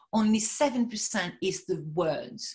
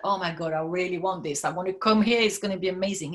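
chocolate language; 2 semitones lower, faster than usual. Shown as a demonstration. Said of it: "Explain with chocolate language".

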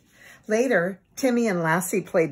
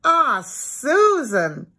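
coaxing; 6 semitones higher, 5 dB louder, much slower than usual. A narrator's reading. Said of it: "Timmy coaxed".

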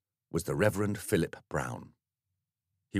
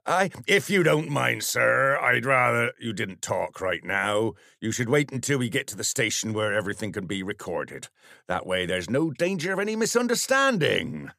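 officious sergeant; 4 semitones higher, 4 dB louder than usual. Acted. Sergeant silencing vicar in car.

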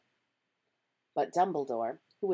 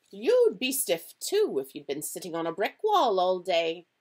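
loud, higher, indignant professor; stern professor protesting, voice raised; indignant McGonagall; 4 semitones higher, 9 dB louder than usual. A narrator's reading. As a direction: retort sharply as the stern professor.

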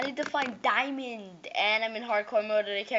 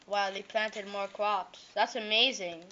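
sarcastic. Shown as a demonstration. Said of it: "Hey, I sound sarcastic, right?".

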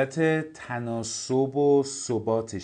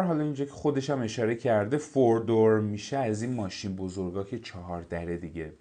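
ordinary talk, nothing marked

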